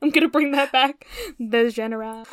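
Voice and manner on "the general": The general with a French zh: ʒénéral; French accent. Pretend. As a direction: say general the French way, soft zh start. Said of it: "I almost said it in a French accent".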